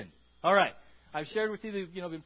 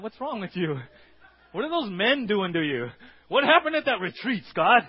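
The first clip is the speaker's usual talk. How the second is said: rising alarmed cry, louder and higher toward the end; alarmed wife; 3 semitones higher, 10 dB louder than usual. Acted. Wife confronting husband about the retreat, loud and alarmed. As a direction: demand answers, getting more upset.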